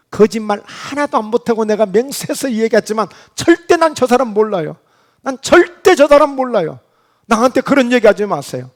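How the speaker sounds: emphatic acted oath of innocence; swearing denial. Peter swears to accusers he doesn't know that man, emphatically. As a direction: insist on it, pushing harder on each denial.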